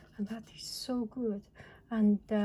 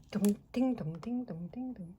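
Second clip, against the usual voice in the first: imitated chime. Teacher fills time while setting up, chiming playfully. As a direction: alternate the dongs and dings like a little bell.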